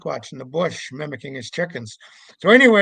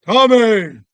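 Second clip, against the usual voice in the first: a loud call of Tommy across the beach, higher; 6 semitones higher, 12 dB louder than usual. Retold or imitated. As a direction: shout the name from far away. Name called across the beach.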